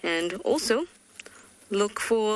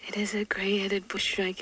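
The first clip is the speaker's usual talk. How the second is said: whispering. Real, not acted. Quietly spotting a shy bird.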